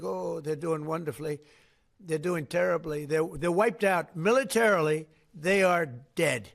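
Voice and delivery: mock news voice, slowing at the end; mocking news report. Mocking press coverage to reporters, slowing at the end. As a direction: parody the papers, drag out they are dead. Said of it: "you read like".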